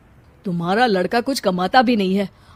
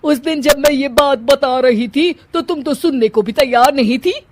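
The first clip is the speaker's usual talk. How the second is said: loud, taunting scorn; mocking retort; 2 semitones higher, 4 dB louder than usual. Bride's mother taunting Kanchan, mocking. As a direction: throw her words back at her.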